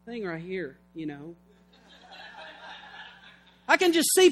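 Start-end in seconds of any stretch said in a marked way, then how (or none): 0.1-1.3 a hint of a quiet tempter; coaxing tempter. Satan playing on a tired body, softly coaxing. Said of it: "Satan can jump all over that".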